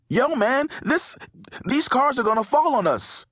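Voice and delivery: high-pitched panicked yell; alarmed yell. A narrator's reading. Brandon warns his friend of falling cars, alarmed yell. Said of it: "Brandon yelled".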